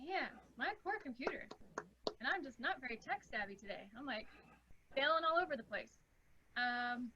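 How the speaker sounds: faint and distant on the call; far from mic. Real, not acted. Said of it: "It's just very soft".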